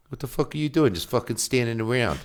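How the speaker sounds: lightly mimicked New York griping; imitated New York accent. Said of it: "I love your accent".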